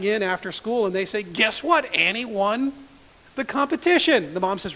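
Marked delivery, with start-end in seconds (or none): 1.2-4.3 put-on excited kids. Kids bursting in with news.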